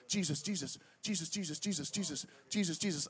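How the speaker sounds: soft, rapid repeated murmur; imitated frightened murmuring. Preacher mimicking his wife praying in her sleep, hushed. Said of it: "coming out of her mouth is this".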